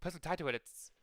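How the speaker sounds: put-on game narration in a tentative Boston accent; amateur stab at a Boston accent. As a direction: read briskly with a light Boston accent. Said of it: "I'm trying it out a little bit".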